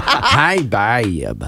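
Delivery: mock girlfriend coo through a laugh; lightly voiced girlfriend, half laughing; laughing girl voice demo. Shown as a demonstration. Host retries the girlfriend voice, laughing mid-line. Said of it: "That's a smoker".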